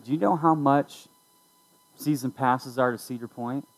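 offhand question, trying to sound nonchalant; fake-casual. Daughter asking dad about season passes, super casual. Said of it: "tried to be super casual".

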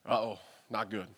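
low, soft, worried driver voice; Willie's worried uh-oh. Retold or imitated. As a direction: mutter it like a worried local driver.

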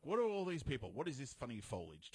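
lightly voiced baffled heroine; a touch of grand confusion; clueless in-character toy. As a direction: open high and loud, bewildered. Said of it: "she's clueless to the whole thing. She's in character".

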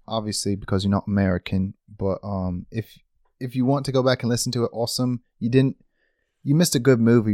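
put-on British accent that slips; mock British host, accent fading as it goes; British accent, deteriorating. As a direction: welcome listeners in a shaky fake British accent. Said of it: "That accent deteriorated so fast".

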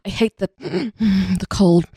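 breathy gasp mid-line, mock trauma; gasping dramatic delivery. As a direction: imitate an overwrought gasping actress. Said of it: "she delivers the line like she's had some horrible trauma".

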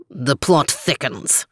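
slow, stiff, low remark; stiffly. Acted. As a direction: say it stiffly, saving face. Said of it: "added Overton stiffly".

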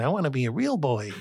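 light wistful Pinocchio line; a hint of a puppet longing to be real. Telling the interviewer how his daughters tease him, a light Pinocchio voice. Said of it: "I'm like Pinocchio saying".

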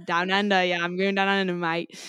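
put-on joking Australian accent. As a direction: play up a mock Australian twang. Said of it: "this Australian man".

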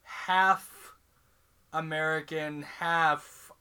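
put-on slow, deliberately neutral half-American accent; Liam Neeson's accent. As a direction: speak slowly, dodging any clear accent. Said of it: "kinda had Liam Neeson's".

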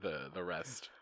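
hushed whispered aside. Real, not acted. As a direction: drop to a whisper. Mock compliment whispered.

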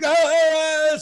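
high mock wail of pain; retold pained cry. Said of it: "she's screaming".

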